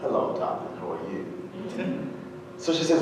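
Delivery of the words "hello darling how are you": posh British. Retold or imitated. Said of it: "the Brits are very much what".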